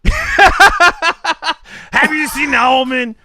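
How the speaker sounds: imitating caller. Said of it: "He goes".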